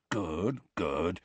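softly murmured, absent-minded; reply softly, attention elsewhere; distracted. A narrator's reading. Hagrid half-listens to Harry's answer, distractedly. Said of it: "said Hagrid distractedly".

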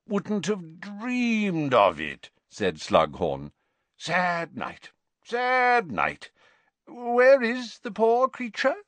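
a hint of theatrical sorrow; Slughorn voice. A narrator's reading. Slughorn to Hagrid on the sad night, hammed-up.

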